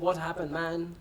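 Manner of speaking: put-on casual question in a different English accent. Tough biker stopping a stranded rider, in a different English accent. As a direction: greet him like a local speaking a different English accent. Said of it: "in a different, uh, English accent".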